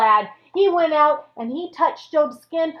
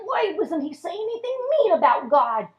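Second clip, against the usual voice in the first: mildly frustrated whine; higher, exasperated questioning; 5 semitones higher than usual. Acted. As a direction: act a thwarted villain's frustration. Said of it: "the devil just was so frustrated".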